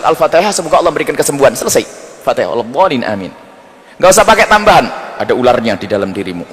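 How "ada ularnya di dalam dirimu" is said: low, ominous fake diagnosis; mock healer voice. Fake ruqyah healer telling a patient about snakes inside, low and ominous. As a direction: drop the voice like a shady healer.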